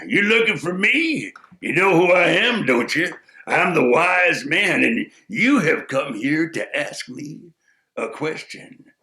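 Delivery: lightly voiced knowing sage; a sly old sage sizing him up; wise man. Wise man greeting the visitor, knowing and sly.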